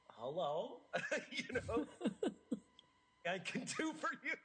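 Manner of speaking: high, giggling retold greeting; bubbling laughter through a quoted hello; laughing through it. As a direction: laugh the words out as you quote yourself. Laughing while quoting herself.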